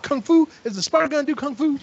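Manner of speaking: high, incredulous retold question; mocking disbelief. Tyler mocks Todd's idea for the spider, high incredulous voice.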